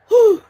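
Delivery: high, loud pained exhale; reenacted gasp after a fall; sharp high whew. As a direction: let out a sudden "whew". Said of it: "I'm just like".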